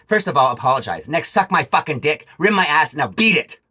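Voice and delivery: loud, furious list of demands; angry telling-off. Real, not acted. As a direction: bark each order at the thief. Telling off the thief who robbed him.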